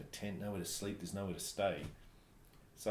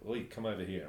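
lightly imitated South Afrikaans accent; retold in an Afrikaner's accent. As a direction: put on a hint of an Afrikaans accent. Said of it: "in his South Afrikaans accent".

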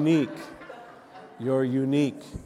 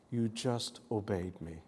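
soft, understated imitation of a whisper; retold whisper; 7 dB quieter than usual. Preacher quoting the Holy Spirit's answer, softly retold whisper. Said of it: "the Holy Spirit whispered to me".

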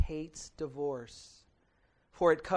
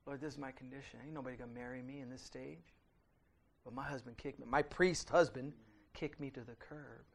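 crying out; 5 semitones lower, 8 dB quieter than usual. Retold or imitated. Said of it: "they're crying out to the Lord".

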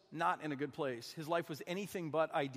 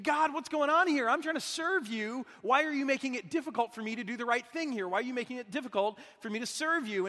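raised, exasperated complaint to God; frustrated plea; 4 semitones higher than usual. Pretend. Imagined frustrated prayer to God.

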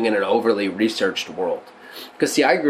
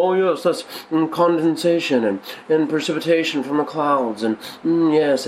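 scholarly voice; 3 semitones higher than usual. Pretend. Preacher mocks textbook answers to the church in a scholarly voice. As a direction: play a know-it-all lecturer, lightly. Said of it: "you guys like my scholarly voice".

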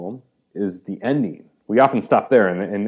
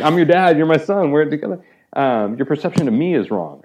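pleading father; 7 semitones higher, 5 dB louder than usual. Retold or imitated. Father pleading with older son.

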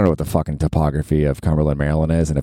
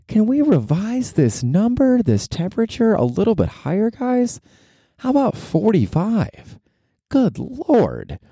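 high, whiny mock plea for a higher number; mock pleading; slower than usual. Podcaster mock-begging camp staff to raise the limit, high whiny plea. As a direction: beg like a desperate teen, voice pitched way up.

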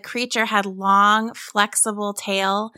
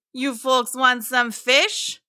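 friendly mosasaur making an offer; slow, higher creature voice; 4 semitones higher, slower than usual. A narrator's reading. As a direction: offer it casually as a chummy monster. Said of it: "he asked".

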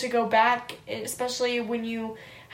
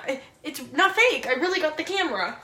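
mock amazement; 4 semitones higher, 4 dB louder, much faster than usual. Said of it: "Or like".

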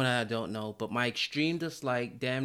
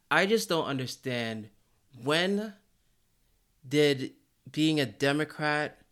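heated rant; 3 semitones higher, 4 dB louder than usual. Real, not acted. Heated rant about politics.

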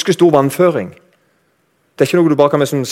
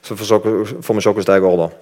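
ordinary talk, nothing marked

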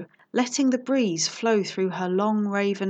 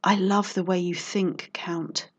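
purring. Acted. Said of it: "she purred".

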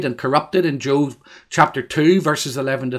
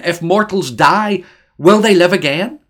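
crying out; 4 semitones higher, 6 dB louder than usual. Acted. Preacher voices Job's ultimate question to God, crying out. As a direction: cry the question out toward heaven. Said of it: "and he cries out".

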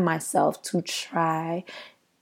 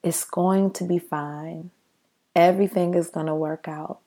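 soothing whisper; 4 dB quieter than usual. Retold or imitated. Retelling the meditation leader's words, soft and soothing. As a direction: lightly imitate a gentle meditation leader. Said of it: "the leader of the meditation was saying things like".

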